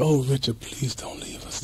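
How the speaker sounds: softly whispered, tearful plea; imitating a weeping plea. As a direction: whisper it like a friend crying at a bedside. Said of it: "Just weeping".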